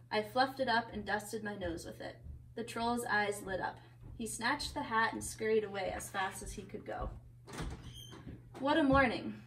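lively picture-book reading; story narration. A narrator's reading. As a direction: read a story to children.

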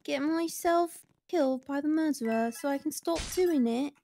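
put-on British accent. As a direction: speak in a playful British voice. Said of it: "you should do a British voice as well".

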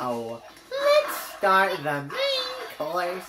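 dark lord. Pretend. Villain announcing the finale.

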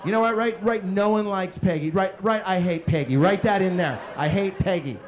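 loud, worked-up rant; irate dictation. Acted. Dad making his son write that he hates Peggy, irate.

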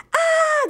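chillido agudísimo de susto; grito de pánico exagerado; grito aterrorizado. Acted. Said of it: "gritó aterrorizado". (Lupo se asusta de los lobos, chillido agudo)

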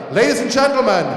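building from hype to a roaring name call; arena announcer. Acted. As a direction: pump up the crowd, then shout the name long. Ring announcer calls fighter's name.

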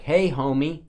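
easy, unhurried "Hey, homie"; slow it down, lifting at the end; slowed-down greeting. Shown as a demonstration. Host shows how he says homie, slowed down. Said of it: "I slow it down like".

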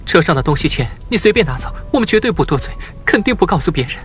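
put-on panicked teacher begging for the children's safety; pleading. A narrator's reading. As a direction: beg the kidnapper desperately, rising in pitch. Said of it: "她听见胡老师的哀求声".

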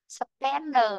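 "spender" with SPEN stressed, falling on "der"; unstressed -er ending. Shown as a demonstration. Teacher gives an R-ending example, ending unstressed. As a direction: hit "spen", let "der" fall to schwa. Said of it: "nó không có trong ấm đó".

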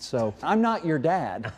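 chuckling through the forecast; suppressed laughter while reading; anchor stifling giggles. Real, not acted. Weatherman laughing at absurd temps.

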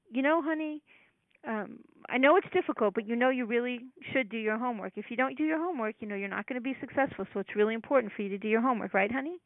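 lightly voiced nurturing parent coaxing a child; nice parent voice. Parent coaxing a child about homework, sweetly. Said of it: "says something in a nice way".

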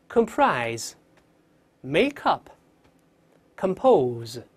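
"comprise", "make up", "compose" read singly with pauses; clear model reading. Shown as a demonstration. Teacher reading key words aloud for students, clear model reading. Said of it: "再大声读一遍".

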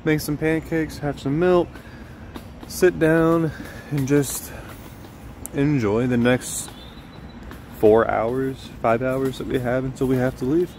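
loud cheerful morning greeting; bright, loud vlog host energy; upbeat vlog intro. Real, not acted.

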